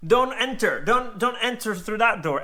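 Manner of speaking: mild imitation of a frantic driver; frantic old lady. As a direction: stop him from the door in a panic. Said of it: "she was like".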